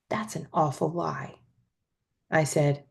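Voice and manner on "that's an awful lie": soft hushed retort; whisper. A narrator's reading. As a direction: whisper the accusation back. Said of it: "She whispered back".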